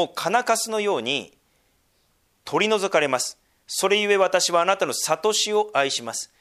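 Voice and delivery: 聖句を一語ずつ丁寧に読み上げる; 説教の中で聖書を厳かに朗読; 聖書朗読. Acted. Reads scripture aloud. (厳かな聖書朗読)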